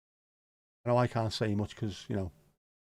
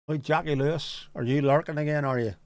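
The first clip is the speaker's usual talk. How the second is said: louder teasing call; 3 semitones higher, 3 dB louder than usual. Real, not acted. Streamer teasingly calling out a lurking viewer, louder. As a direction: call out to her, playfully.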